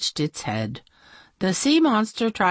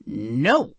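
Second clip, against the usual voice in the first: firm princess; 5 semitones lower than usual. Acted. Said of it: "said the princess in black".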